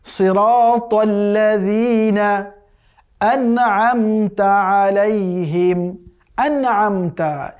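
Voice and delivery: drawn-out tajweed chanting; slow Quran recitation. Shown as a demonstration. Teacher reciting the verse for students, slow chant. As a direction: recite each word slowly and carefully.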